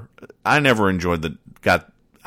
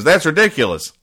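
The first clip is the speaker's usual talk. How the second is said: raised, louder indignant country voice; indignant hillbilly; 4 semitones higher, 4 dB louder than usual. Acted. Snuffy insists to his neighbor he has no anger problem, indignant. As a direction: protest like a hot-headed hillbilly.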